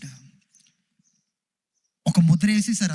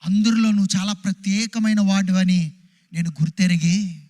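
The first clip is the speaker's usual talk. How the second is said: higher, pleading voice of a desperate woman; woman speaking her hope to Jesus, pleading and higher; the sick woman's thoughts; 4 semitones higher than usual. Acted. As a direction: plead as the outcast woman who came for healing. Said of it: "ఇంకా ఆ స్త్రీ అనుకుంది".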